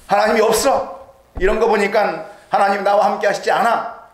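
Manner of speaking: mildly mocking the doubter who says God is absent; denying God. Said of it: "하나님을 부정하려고 해보니까".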